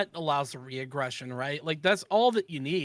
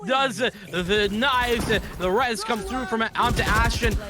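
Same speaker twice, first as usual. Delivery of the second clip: excited play-by-play; 4 semitones higher than usual. Acted. Live play-by-play continues.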